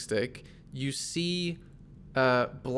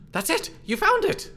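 high-pitched excited exclamation; Galahad; 4 dB louder than usual. Acted. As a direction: exclaim it high, amazed at the find. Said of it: "Galahad looks over your shoulder and says".

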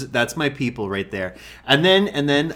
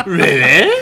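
laughing; 6 semitones higher, 10 dB louder than usual. Real, not acted. Laughing at story.

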